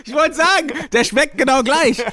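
high laughing disbelief. Real, not acted. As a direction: laugh through the outrage. Reacts to same wine reveal. (lachend und ungläubig)

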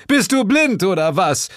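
loud, high, scornful shout; angry yell. A narrator's reading. Devil yelling at his wife, angry and scornful. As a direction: berate her at the top of the voice. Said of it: "schrie der Teufel".

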